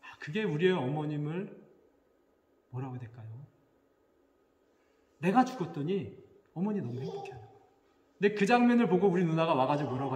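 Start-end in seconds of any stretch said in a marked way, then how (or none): none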